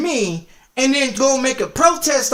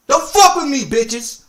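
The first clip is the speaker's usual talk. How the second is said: angry warning shout; 3 semitones higher, 3 dB louder than usual. Real, not acted. Streamer warning the rival racer not to cross him, shouting. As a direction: bark the warning loud and high.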